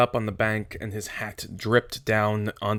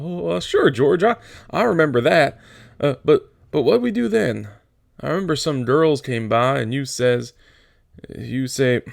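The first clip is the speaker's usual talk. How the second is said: put-on higher, eager childlike Lenny; eager simple giant; 3 semitones higher than usual. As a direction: beam with delight remembering. Lenny eager, recalling memories.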